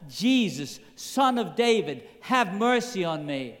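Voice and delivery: high, insistent imitated call; mock shout over a hushing crowd. Blind man calls over the crowd, shouting out. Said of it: "he shouts out even louder".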